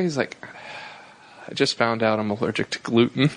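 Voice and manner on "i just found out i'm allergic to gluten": low, dejected confession after a long pause; understated, lowered voice of mock despair; crestfallen. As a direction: imitate a man breaking bad news, crushed. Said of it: "just crestfallen".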